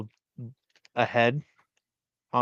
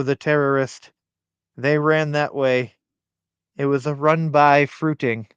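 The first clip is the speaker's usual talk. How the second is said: put-on Scottish-ish accent; 3 semitones higher than usual. Reading a Mrs. Doubtfire quote aloud, lightly accented nanny voice. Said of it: "You did a good accent".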